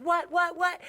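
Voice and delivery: high, repeated mock-alarmed question; startled imitation. Nail tech reacting to fire alarm, startled imitation. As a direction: imitate a startled reply, voice jumping up.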